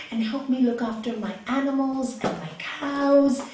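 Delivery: put-on coaxing old father, building to an insistent plea; lightly voiced old father talking him into staying; old father persuading. Old father urging the young man to stay, coaxing. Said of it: "the old father who's been so kind to him says".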